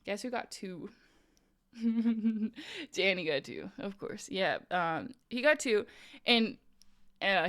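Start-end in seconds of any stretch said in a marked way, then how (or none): 1.8-2.9 chuckle. Real, not acted. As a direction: chuckle to yourself. Laughs at friend's two drinks.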